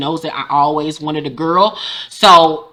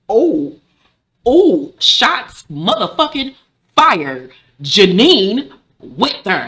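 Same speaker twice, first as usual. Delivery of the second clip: hyped-up reaction; 3 semitones higher, much slower than usual. Retold or imitated. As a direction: draw it out like a delighted spectator. Hyped reaction to Janine's comeback.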